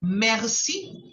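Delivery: Merci with a throat R and a rising end; model merci. Shown as a demonstration. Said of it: "repeat after me".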